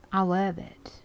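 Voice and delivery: whispered delight. Real, not acted. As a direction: breathe it out in a whisper. Whispered then said aloud.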